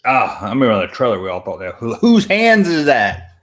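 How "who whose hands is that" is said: high, drawn-out wondering question; mock puzzlement. Streamer recalling everyone guessing over the trailer, baffled. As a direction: stretch it out in exaggerated bafflement.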